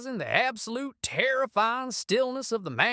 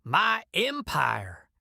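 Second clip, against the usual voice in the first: cracking whine; 5 semitones higher than usual. Acted. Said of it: "his aristocratic voice cracking into a pathetic whine".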